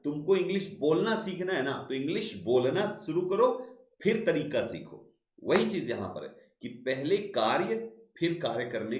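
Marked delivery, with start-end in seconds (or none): 0.0-5.1 higher, quicker imitation of a know-all adviser; advising person. Teacher imitates people advising English learners, lightly mimicked. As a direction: lightly voice someone giving advice. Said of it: "आदमी यही तो कहता है ना कि देखो".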